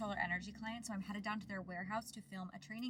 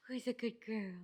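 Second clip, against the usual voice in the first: squeaky praising a dog; 3 semitones higher, 3 dB louder than usual. Real, not acted. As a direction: coo at the puppy.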